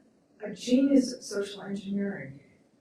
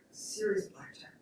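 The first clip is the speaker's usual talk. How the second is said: softer, hushed repeat for effect; hushed emphasis; 7 dB quieter than usual. Real, not acted. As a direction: drop to a near-whisper for weight. Repeats phrase for grave effect.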